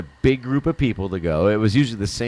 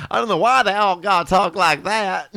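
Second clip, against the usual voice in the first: mock Mexico City accent; 10 semitones higher than usual. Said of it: "that accent is from C D M X".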